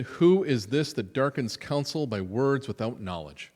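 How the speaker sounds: loud, commanding rebuke; booming declaration. Shown as a demonstration. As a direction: proclaim "Who is this" as God thundering. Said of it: "what a great line".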